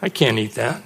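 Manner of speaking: inner thought. Retold or imitated. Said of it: "and I'm thinking".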